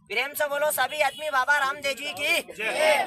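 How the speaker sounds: slow call for the crowd to cheer; slow devotional rallying cry. Acted. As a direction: draw out the invocation to Baba Ramdev. Leads crowd chant.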